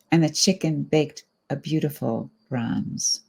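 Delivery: measured poetry reading with phrase-by-phrase pauses; line starts lifted, endings falling away; poem reading. Acted. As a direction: read it as verse, letting each line settle. Reads a poem aloud.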